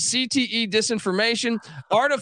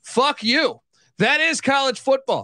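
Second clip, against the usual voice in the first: heated, raised voice at the commissioner; mock outrage; 4 semitones higher than usual. Real, not acted. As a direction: yell it at the suits, fired up. Angry rant at SEC commissioner.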